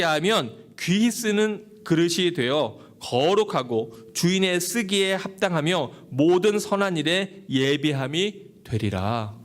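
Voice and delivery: measured, formal Bible reading; scripture reading. Acted. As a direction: read the verse aloud solemnly to the congregation. Reads a Bible verse. (성경 구절을 차분히 낭독하듯)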